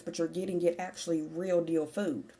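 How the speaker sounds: slightly winded speech; out of breath. Real, not acted. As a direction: talk while short of breath. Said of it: "a little out of breath".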